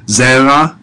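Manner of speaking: "Zera" with emphasis on ZE; stress on first syllable. Shown as a demonstration. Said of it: "notice the emphasis on the first syllable".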